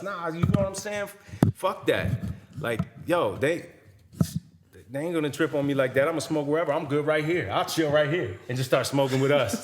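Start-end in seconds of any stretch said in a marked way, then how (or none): 0.0-8.4 mild mock-defiant rant, pitched up; retold rant. Rapper still complaining side stage to friends, retold rant. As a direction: imitate someone ranting on, without shouting. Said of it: "continued his rant to us".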